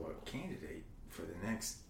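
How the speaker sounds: soft, breathy dramatic whisper; hushed whisper. Acted. Asking Evie if she wants the presidency, dramatic whisper. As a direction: lean in and whisper the big question.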